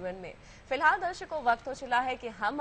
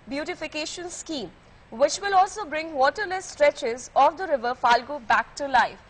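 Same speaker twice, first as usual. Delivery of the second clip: loud, deliberate newspaper reading; news read; 2 semitones higher, 6 dB louder, much slower than usual. Acted. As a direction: read the report out firmly to viewers. Reads English newspaper report aloud. (ऊँची आवाज़ में अख़बार की ख़बर पढ़ना)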